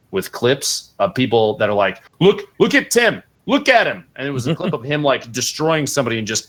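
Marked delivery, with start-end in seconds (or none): 2.2-4.0 high-pitched imitation of excited fans; mock excitement. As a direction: mimic people gawking, voice jumping way up. Mimicking excited clip posters.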